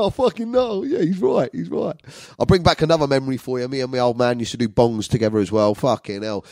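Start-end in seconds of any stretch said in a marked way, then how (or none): 0.0-1.9 high, squeaky put-on voice; mock voice. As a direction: pipe it up in a silly high voice. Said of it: "I go".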